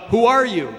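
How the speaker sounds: high, loud call; curious yell. Acted. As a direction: yell it out into the mountains. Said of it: "he yells out".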